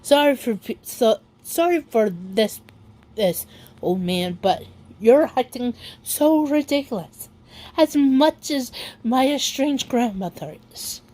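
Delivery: really crying, catching breath midword; tearful, breaking off mid-word. Real, not acted. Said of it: "I'm sorry I'm crying like this".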